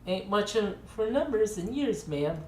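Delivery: put-on old cowboy drawl. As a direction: play a friendly old-timer welcoming a stranger. Cowboy continues.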